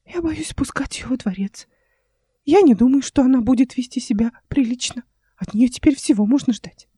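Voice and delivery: high, hushed uncle with a half-whispered middle; fearful confiding. A narrator's reading. Uncle confiding his fear to the envoy, hushed.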